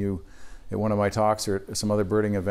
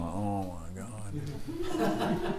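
eye-rolling exasperation; 10 dB quieter, much slower than usual. Retold or imitated. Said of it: "he's rolling his eyes".

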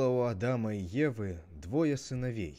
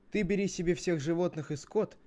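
lightly acted character voice, pitched up; storybook brother laying out terms; Cain making an offer; 5 semitones higher than usual. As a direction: propose the deal in a raised, lively voice. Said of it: "Тогда Каин говорит".

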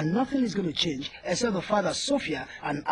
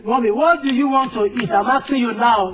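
insistent shout; 3 semitones higher, 6 dB louder than usual. Acted. Son repeats question louder.

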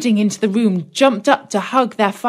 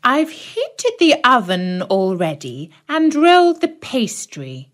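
put-on old witch; 5 semitones higher than usual. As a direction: relish it like a hungry witch. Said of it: "said the old witch".

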